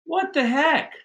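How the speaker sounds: high, loud exasperated shout downstairs; retold yell. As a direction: yell it out as if to someone a floor below. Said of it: "and I yell out".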